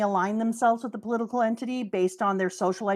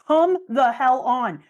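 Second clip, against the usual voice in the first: exasperated; 2 semitones higher, 5 dB louder, slower than usual. Real, not acted. Exasperated rant about Dofi.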